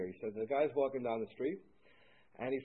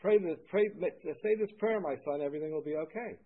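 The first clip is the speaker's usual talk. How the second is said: lightly voiced priest; 3 semitones higher, 3 dB louder than usual. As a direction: intone it like a kindly priest. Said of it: "He says".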